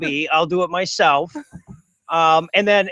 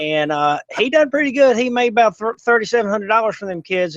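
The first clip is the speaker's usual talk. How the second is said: put-on hick voice; 2 semitones higher than usual. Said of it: "so I figure I'd talk like this".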